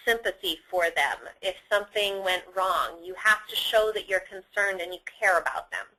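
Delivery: low, softened, sympathetic tone; gentle concern, voice dropped low. Shown as a demonstration. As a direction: sound like you care about them. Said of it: "changing your voice so that you sound concerned".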